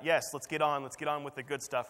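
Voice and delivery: an impatient bidder calling out, not quite a full yell; eager shout. Acted. An impatient bidder at the auction shouting out, mildly hammed-up. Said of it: "someone shouts out".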